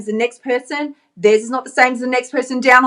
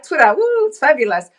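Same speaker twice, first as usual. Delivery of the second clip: mock excitement; 4 semitones higher than usual. Mocking the scroll habit.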